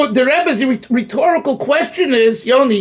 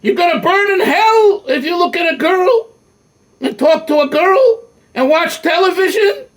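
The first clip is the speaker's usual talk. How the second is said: hammed-up scolding teacher, pitched up; mock stern rebbe; 5 semitones higher than usual. Old yeshiva rebbe scolding the boys, mock stern. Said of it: "the Rebbe comes in and says".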